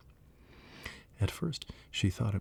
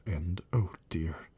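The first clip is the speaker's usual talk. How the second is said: sorrowful; slower than usual. Acted. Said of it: "in a sorrowful tone".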